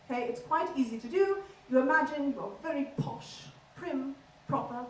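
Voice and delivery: posh, prim Queen's English accent; very proper standard British RP; received pronunciation. Shown as a demonstration. Comic teaching the crowd posh English, in received pronunciation. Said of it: "we'll do a very bog standard English accent".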